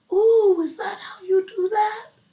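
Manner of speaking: put-on very high, timid, shy little-girl baby voice. Retelling Cindy asking Cecilia in the kitchen: imitating Cindy's shy baby voice. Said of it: "in her shy little girl baby voice".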